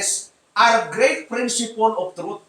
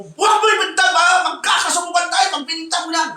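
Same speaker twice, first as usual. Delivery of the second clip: angry husband; 5 semitones higher than usual. Acted. Pastor acting a husband shouting down his wife. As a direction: snap back at the wife, daring her.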